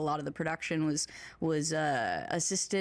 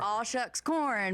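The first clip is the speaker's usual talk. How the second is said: slow, playful country twang voice, echoing back; mock country twang; 4 semitones higher, much slower than usual. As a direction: stretch the words out in a country twang. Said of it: "a bit of a country twang".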